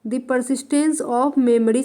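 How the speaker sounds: The Persistence of Memory stretched out word by word; very slow, deliberate title dictation. Shown as a demonstration. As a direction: dictate it slowly, twice, for notes. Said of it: "में लिख रही हूँ".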